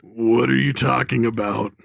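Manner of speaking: low, voiceless whisper; villain's whisper. Acted. Villain questions teen's offer, whispering.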